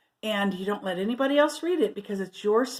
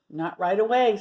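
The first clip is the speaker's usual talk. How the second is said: sly. Acted. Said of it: "said Martha slyly".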